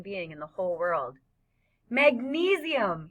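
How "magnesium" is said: high, slow, stretched-out call; excited shout. A narrator's reading. Freak shouting as white sparkles glitter down, excited shout. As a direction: call it out to the sky. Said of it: "he shouts as the white sparkles glitter".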